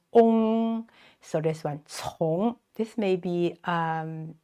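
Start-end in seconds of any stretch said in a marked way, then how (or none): 0.1-0.9 ong held long and high; vowel sound demo. Shown as a demonstration. Teacher breaking 从 into sounds, sustained high ong. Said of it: "is pronounced 呲 and". 1.8-2.6 从 as ts plus ong, rising; pronunciation demo. Shown as a demonstration. Teacher modelling a hard word, careful rising 从. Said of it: "hard to pronounce".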